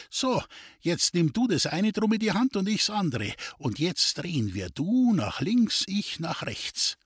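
a hint of a wheedling gypsy fortune-teller; sly gypsy. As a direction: tease him with the rival's luck. The gypsy Duli directs the twisting.

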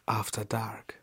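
secretive late-night whisper. Acted. Late-night show tag, playful.

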